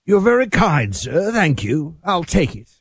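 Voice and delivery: playful put-on British accent; fake British accent. Host thanking co-host for the compliment, fake British accent. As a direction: accept praise as a mock-British gentleman. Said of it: "your fake British accent".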